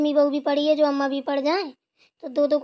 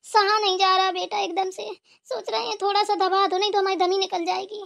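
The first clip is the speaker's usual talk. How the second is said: higher, lightly voiced old mother-in-law in pain; a hint of a hurting mother-in-law, higher voice; aching mother-in-law; 4 semitones higher than usual. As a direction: moan it out as the ailing mother-in-law, pitched up.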